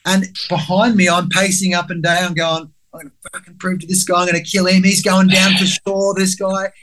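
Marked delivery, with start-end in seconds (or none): 2.9-6.7 inner angry vow. Retold or imitated. Inner vow to prove him wrong.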